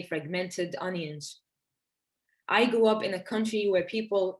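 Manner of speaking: measured, deliberate poem recital; each phrase set apart, verse-like; poetry reading. Acted. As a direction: read your poem to an audience, pausing between phrases. Reads second poem aloud.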